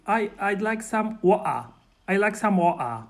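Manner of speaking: "water" as wo'-ah, no t; Cockney glottal stop. Shown as a demonstration. Teaching the hosts Cockney, glottal-stop "water". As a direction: drop the t in "water" for a throat catch. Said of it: "you can just say".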